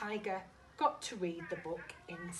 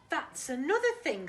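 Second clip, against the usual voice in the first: Tiger voice; 7 semitones higher, 7 dB louder than usual. Acted. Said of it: "said Tiger".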